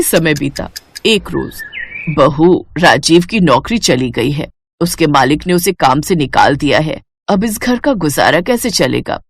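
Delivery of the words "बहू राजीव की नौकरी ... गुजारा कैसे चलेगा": a worried mother-in-law, a touch lower; slightly lower, troubled older woman; lightly voiced mother-in-law. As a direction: break the bad news to her daughter-in-law. Mother-in-law breaks bad news.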